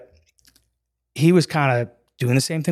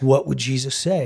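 laughing. Retold or imitated. Friend's question retold laughing.

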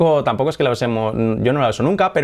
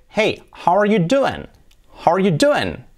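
slow, bright friendly "Hey, how are you doing?"; cheerful casual greeting; 7 semitones higher, slower than usual. Shown as a demonstration. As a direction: greet a friend warmly and slowly. Profesora muestra saludo informal. (saludo informal y alegre)

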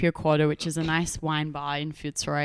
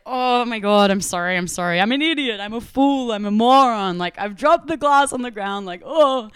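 high, loud, frantic self-blame; panicked apology; 4 semitones higher, 5 dB louder than usual. Retold or imitated. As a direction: fluster through the apologies at full pitch. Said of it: "Moishi was like".

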